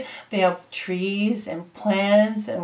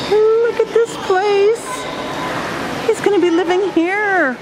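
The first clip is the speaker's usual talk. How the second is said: much higher and louder, slowed in awe; amazed; 9 semitones higher, 4 dB louder than usual. Real, not acted. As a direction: gasp at how beautiful the place is. Showing the aviary in awe.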